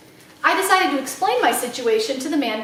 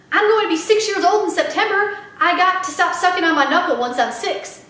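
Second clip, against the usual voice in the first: put-on little girl voice; 5 semitones higher, 3 dB louder than usual. Little girl Sweetie Pie.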